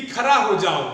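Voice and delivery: खड़ा said as खरा; mimicked mispronunciation of खड़ा with र; ड़ turned into र. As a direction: imitate the mistake, plain र in खड़ा. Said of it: "खड़ा को खरा कहते हैं".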